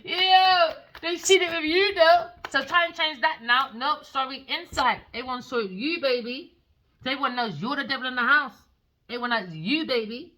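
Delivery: high, loud gloating villain voice; evil voice. Pretend. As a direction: taunt them like a cackling villain. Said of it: "That's my evil voice".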